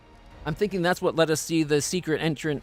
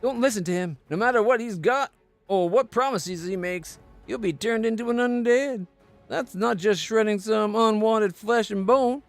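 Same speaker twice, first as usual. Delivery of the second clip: urgent warning voice; 5 semitones higher than usual. Acted. Paladin warns against becoming undead.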